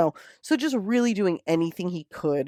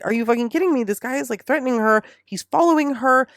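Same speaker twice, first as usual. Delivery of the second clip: higher, louder indignant protest; outraged mom; 8 semitones higher, 5 dB louder than usual. Retold or imitated. Mom protesting to the police, higher and louder in outrage. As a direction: build the outrage line by line.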